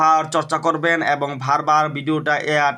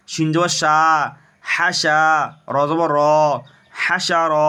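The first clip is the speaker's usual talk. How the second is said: recitation drill. Shown as a demonstration. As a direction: stretch each final syllable, pausing between units. Leads Arabic spelling drill.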